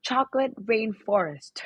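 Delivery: lightly exaggerated American accent; strong American accent. Dad ordering at Swensen's, strong American accent. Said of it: "make such a strong accent".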